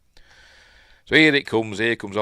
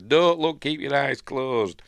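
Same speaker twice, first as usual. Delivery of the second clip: urgent warning; 6 semitones higher, 4 dB louder, slower than usual. Retold or imitated.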